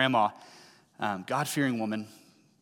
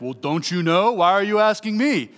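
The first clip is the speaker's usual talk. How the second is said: higher, louder mocking teenage sass; sassy teen; 6 semitones higher, 6 dB louder than usual. Pastor mimicking a sarcastic teen to parents, higher, louder, sassy. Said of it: "they'll say things to you like".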